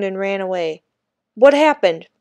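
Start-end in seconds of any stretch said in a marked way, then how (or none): 1.3-2.1 urgent question. A narrator's reading. Teacher rushes to hurt boy.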